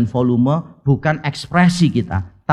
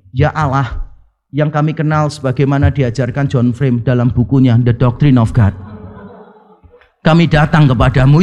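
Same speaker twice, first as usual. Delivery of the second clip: brief plain prayer; 5 semitones lower than usual. Shown as a demonstration. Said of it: "Saya akan berdoa begini".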